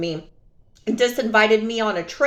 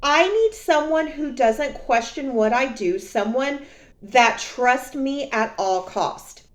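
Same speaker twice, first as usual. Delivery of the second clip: repeated quote; 3 semitones higher than usual. Retold or imitated. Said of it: "repeat of his words".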